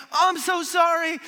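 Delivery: mock tearful apology. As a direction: parody a sappy film apology. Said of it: "with tears in their eyes".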